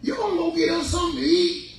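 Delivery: the belly coaxing him; pleading stomach voice; stomach asking. Acted. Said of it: "Right now".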